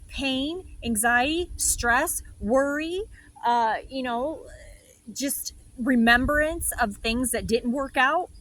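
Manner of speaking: hammed-up fretful guardian listing worries; the ego smothering her with fear, dramatically; overprotective ego. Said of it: "the ego is consistently always going".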